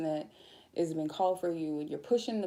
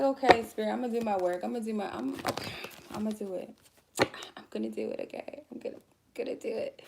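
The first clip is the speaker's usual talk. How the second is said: grudging compliance; 4 semitones higher, faster than usual. Retold or imitated. Reluctantly giving in to spirit.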